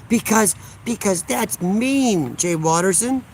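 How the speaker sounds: slow, put-on innocent voice; mock sweet. Streamer mocks a chatter's question in a slow, put-on voice.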